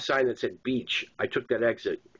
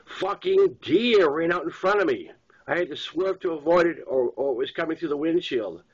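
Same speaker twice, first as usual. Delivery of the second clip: convincing excuse; 5 semitones higher, 3 dB louder than usual. Acted. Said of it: "sounded so convincing".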